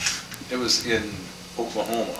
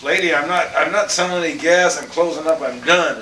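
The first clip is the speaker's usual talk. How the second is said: angry refusal; 7 semitones higher, 5 dB louder than usual. Retold or imitated. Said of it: "And he says".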